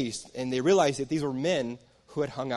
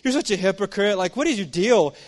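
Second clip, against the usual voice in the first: accusing brother; 2 semitones higher than usual. Retold or imitated. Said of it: "So he says".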